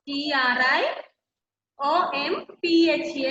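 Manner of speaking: each letter said separately and distinctly; spelling out letters. Shown as a demonstration. Teacher dictating the spelling of Triomphe to students, letter by letter. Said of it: "spelling the word for class".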